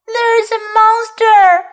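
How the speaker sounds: put-on high, slow wail of a scared child; mock sobbing. Kipper telling his parents about the monster, mock sobbing. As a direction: wail it, upset but lightly acted. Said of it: "he sobbed".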